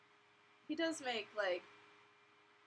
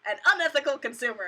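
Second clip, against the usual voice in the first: mocking imitation; 8 dB louder than usual. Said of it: "some chicky poo who's like".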